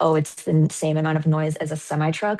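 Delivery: plain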